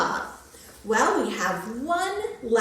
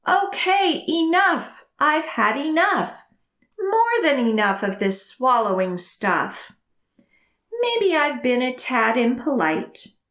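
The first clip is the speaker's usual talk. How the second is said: huffy dragon who has had enough; grumpy dragon; 2 semitones higher, 6 dB louder than usual. Acted. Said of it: "the dragon roared, and I quote".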